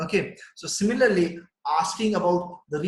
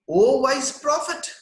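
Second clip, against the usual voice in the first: raised higher and slower, a light mock squeak; squeaky baby voice; 8 semitones higher, 7 dB louder, slower than usual. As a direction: voice the newborn prince, a little high and drawn out. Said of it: "uttered these words in a squeaky voice".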